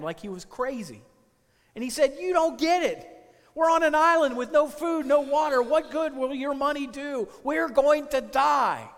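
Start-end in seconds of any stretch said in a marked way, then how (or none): 2.2-8.9 high, loud, frantic "You don't get it"; panicked yelling. Retold or imitated. Panicked castaway yelling that they have no food. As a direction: hammer each line at him in alarm.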